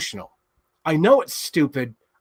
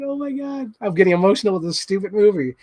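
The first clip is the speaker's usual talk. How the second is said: gushing; 6 semitones higher than usual. Retold or imitated. Retelling own gushing reaction.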